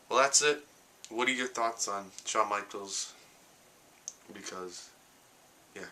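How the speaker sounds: sore mouth from wisdom teeth, words a bit slurred; talking weird from toothache. Real, not acted. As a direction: talk around a painful, swollen gum. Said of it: "That's why I'm talking weird".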